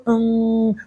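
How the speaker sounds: usual speaking voice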